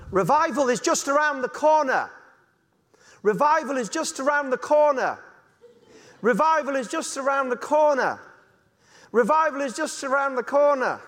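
lampooning over-hyped preachers, each take the same; mocking hype. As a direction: parody the cuckoo-land charismatic chant. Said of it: "charismatic Christian, living in cuckoo land".

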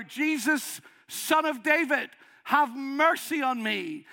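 high, loud shout for mercy. Retold or imitated. Bartimaeus ignoring the disciples, shouting to Jesus. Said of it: "He shouts all the louder".

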